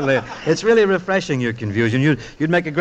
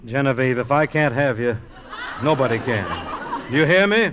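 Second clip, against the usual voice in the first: melodramatic threat. Acted. Husband's melodramatic threat at home.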